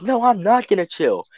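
high-pitched mock refusal; indignant mother imitation. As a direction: act out an outraged mom digging in. Retold mother refuses to calm down.

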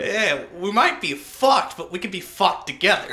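loud, high shout breaking into laughter; laughing rally. Acted. Buddy joining in the joke, laughing shout.

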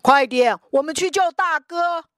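high, loud urgent shouts; excited kids shouting. Acted. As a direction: heave and cheer together. Brothers rescue, cheering.

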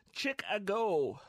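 "Chicago" drawn out as CHICK-a-go; "Chicago" in three spelled-out parts, chick, a, go; spelling pronunciation. Shown as a demonstration. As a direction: say "Chicago" slowly, like chick-a-go, as a memory aid. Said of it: "That's actually how I remember how to spell Chicago".

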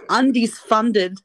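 Undies Funded slow and loud, each word separated; slow, clear spelling-out. Shown as a demonstration. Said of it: "Undies what?".

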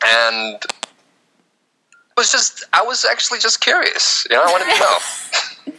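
high, laughing mock innocence; a touch of laughter. Real, not acted. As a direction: say it through a giggle. Laughing while claiming innocence.

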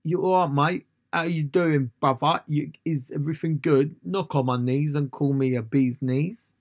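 exaggerated mock-Cockney British accent; bad British accent. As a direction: mimic an American murdering a British accent. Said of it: "Americans can't do our voice. Yeah, they're always like".

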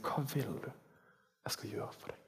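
Jesus's question whispered softly; tender whisper. Acted. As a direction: whisper it as a gentle invitation. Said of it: "Han sier".

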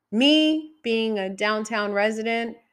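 ordinary delivery

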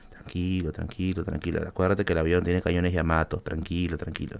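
quiet reassuring self-talk, under the breath; self-soothing murmur. Retold or imitated. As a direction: hush yourself through the shaking plane. Calming himself in turbulence.

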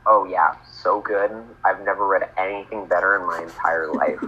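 dry, deadpan praise; deadpan sarcasm. Real, not acted. Co-host pretends to love the awful story, deadpan. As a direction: praise it with no enthusiasm at all. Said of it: "it was your perfect deadpan voice".

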